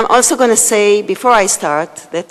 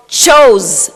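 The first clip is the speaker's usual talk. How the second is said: chose said slowly and a bit louder, leaning on it; stress on chose; 5 dB louder than usual. Real, not acted. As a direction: lean on chose, slow it down. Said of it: "I emphasize the word chose".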